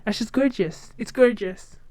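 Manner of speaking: favorite catchphrase in an American accent; lightly put-on American twang. Shown as a demonstration. Demonstrating a favorite phrase to viewers, American accent. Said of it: "my favorite phrase now".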